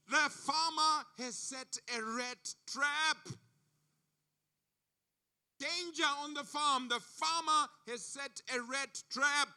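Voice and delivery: a panicky rat crying out danger. Acted. Rat warning the farm animals, panicky and excited. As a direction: raise the alarm in a rush of panic. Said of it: "panicky and excited".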